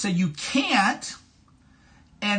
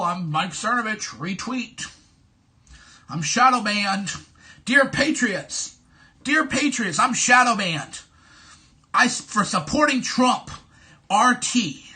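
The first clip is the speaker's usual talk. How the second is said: mock begging tweet. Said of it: "Show where I've ever begged people".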